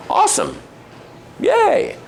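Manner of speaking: retold reply ending in a high squeaky yay; lightly acted little celebration, leaping up at the end; non-condescending cheer. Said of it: "And not condescending".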